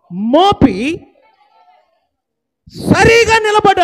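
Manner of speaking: sharp high shout ordering him up; loud command. Retold or imitated. Paul ordering the lame man to rise, loud shout. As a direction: bark the order to stand. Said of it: "బిగ్గరగా అన్నాడా?".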